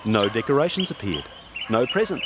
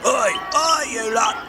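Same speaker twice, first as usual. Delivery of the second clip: small gnome shouting high; growling shout; 11 semitones higher, slower than usual. Acted. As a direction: yell to be heard over the noise. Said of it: "growled a little voice".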